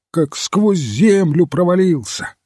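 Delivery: mild alarmed cry. A narrator's reading. Duke exclaims over the vanished colonel, a mild cry. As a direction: cry out in narrated astonishment. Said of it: "крикнул герцог".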